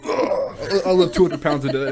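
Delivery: lightly voiced macho guy; manly voice. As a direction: puff it up like a gym bro. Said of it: "it was manly voice time".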